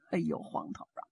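put-on an old man aching on the ground; hurt old man. Injured old man complains.

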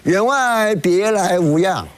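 mildly acted calling out in greeting; mock group hail. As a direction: imitate a crowd's call, stretched out. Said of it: "大家齐声喊叫".

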